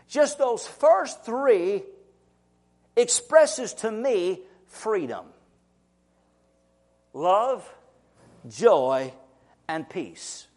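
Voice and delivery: savouring, slow. Real, not acted. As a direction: let each word land gently. Savouring the three fruits.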